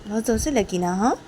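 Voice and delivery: teacher Rishi threatening to hit harder, angry. Acted. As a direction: scold her without mercy. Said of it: "ऋषि बोलती".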